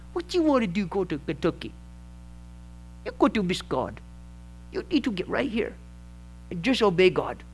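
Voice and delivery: put-on a loose stab at an old man's Southern accent; a hint of an elderly father-in-law's Southern accent, scolding quietly; attempted rural Southern accent. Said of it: "I think I've got the wrong accent".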